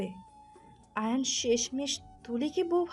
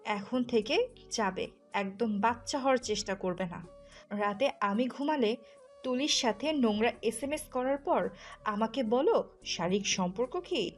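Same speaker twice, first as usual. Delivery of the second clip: angry, sarcastic scolding with hard emphasis; jealous wife, bitterly mocking; scornful accusation. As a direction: call out his pretended innocence. Wife scornfully accusing her husband.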